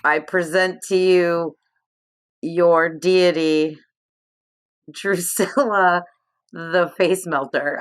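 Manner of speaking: slow, solemn herald of a goddess; grand announcement. Pretend. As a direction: proclaim it slowly to the crowd. Announcing herself to lizard folk.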